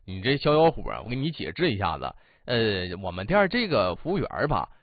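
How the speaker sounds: gently explain, keep it calm; polite calm manager. Retold or imitated. Manager calmly explains the waiter is deaf, polite and soothing. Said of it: "贼有素质，态度还不错".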